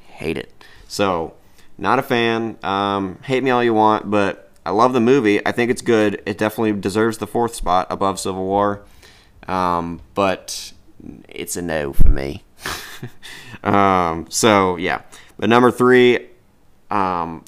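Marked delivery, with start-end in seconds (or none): 0.1-0.6 breathy whispered hate it; whispered disgust. Real, not acted. Disgusted verdict. 12.6-13.6 short unvoiced laugh; a quick airy chuckle; breathy laugh. Real, not acted. Laughs after own verdict.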